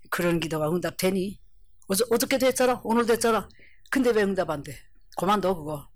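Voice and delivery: understated, discouraging tempter's murmur; insinuating Satan. Acted. Satan nagging someone at prayer, lightly insinuating. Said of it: "사탄이가 밤낮 그런 속삭속삭합니다".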